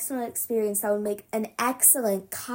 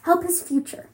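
shout; 5 semitones higher than usual. Acted. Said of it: "I shout".

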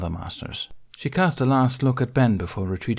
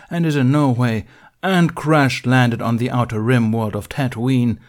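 louder, insistent self-defence; Ben protesting; 2 semitones higher, 5 dB louder than usual. Acted. Ben arguing his case to the council. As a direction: push back with clipped formality.

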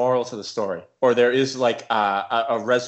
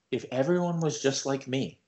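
quiet and calm; 2 semitones higher, 5 dB quieter than usual. Retold or imitated. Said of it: "he got real quiet and real calm".

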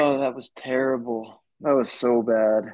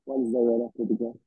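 muffled, like talking underwater; phone smothered under a blanket; faster than usual. Real, not acted. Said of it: "you sound like you've been talking underwater".

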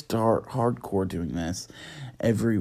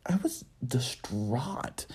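whisper; 7 dB quieter, slower than usual. Acted. Mock distress.

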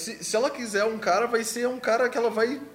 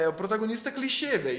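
ordinary talk

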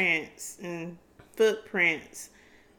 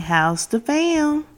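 slow, stretched-out "How's the fam?"; drawn-out show greeting; 4 semitones higher, 7 dB louder, much slower than usual. Shown as a demonstration.

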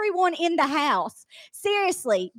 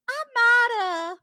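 sly sheepish confession. Retold or imitated. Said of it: "she smirks this little smile now".

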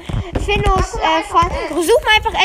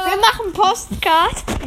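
slow deadpan joke; 2 semitones higher, slower than usual. Pretend. Jokey deliberate wrong word.

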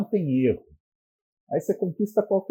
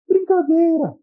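very high, loud delighted cry; high shrieking girlfriend's disbelief; thrilled squeal; 7 dB louder, slower than usual. Retold or imitated.

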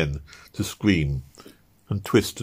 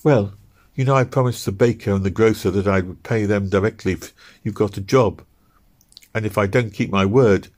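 lightly voiced wife, higher, explaining her promises; wife reminding husband about the baker and grocer; wife's voice; 3 semitones higher than usual. Ruth voiced in the story.

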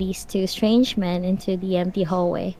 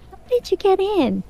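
guard voice; 10 semitones higher than usual. A narrator's reading. Security guard voiced in story.

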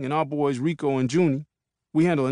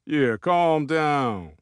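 slow calming; much slower than usual. Acted. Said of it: "says Sean".

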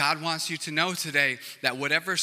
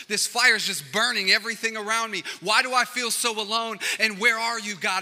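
rising, louder cry to God; desperate plea; 5 semitones higher, 5 dB louder than usual. Retold or imitated. Believer crying out to God in the storm. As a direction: plead with mounting distress. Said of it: "we're looking at it saying".

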